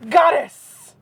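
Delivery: breathy reverent whisper; mock whisper. Reading the raptor romance aloud, whispering goddess reverently. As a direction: whisper it like a swooning lover. Mocking the story's romance line.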